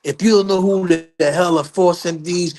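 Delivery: high, emphatic angry comeback; getting the last word. Retold or imitated. Father pointing Joe to the Billboard chart, angry last word. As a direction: imitate a man triumphantly cursing someone out. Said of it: "he got his last word".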